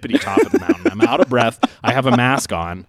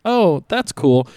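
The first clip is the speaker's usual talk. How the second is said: drawn out, higher and louder; slow, high woman voice; 7 semitones higher, 5 dB louder, much slower than usual. Retold or imitated. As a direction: stretch it slowly, up high. Retelling the woman's reply.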